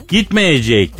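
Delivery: put-on a touch of Cypriot Turkish accent. Host quoting the British foreign minister, Cypriot Turkish accent. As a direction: quote him with a slight Cypriot Turkish lilt. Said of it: "biraz Kıbrıs şivesine çaldı değil mi?".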